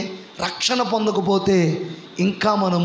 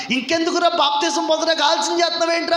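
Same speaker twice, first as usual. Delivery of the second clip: higher, gently pressing the sister; coaxing older brother; 7 semitones higher than usual. Retold or imitated. Brother asks his sister why she delays baptism, coaxing. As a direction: nudge her kindly about baptism.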